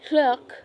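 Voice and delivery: hluk con la ch escocesa gutural; Scottish ch sound. Shown as a demonstration. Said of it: "as in the Scottish pronunciation of".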